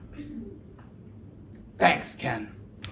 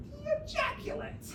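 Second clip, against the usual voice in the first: noun use; 10 dB quieter than usual. Shown as a demonstration. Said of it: "a noun and a verb".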